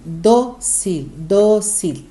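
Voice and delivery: "dócil" split in two, weight on dó; accented syllable demo. Shown as a demonstration. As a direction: break "dócil" into dó and cil, first beat stronger. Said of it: "ela leva acento".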